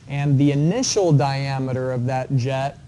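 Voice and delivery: the word "initial" given clear emphasis; teacher stressing "initial" for the class. Shown as a demonstration. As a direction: lean on "initial" so it stands out from the rest. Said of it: "And I emphasize the word initial".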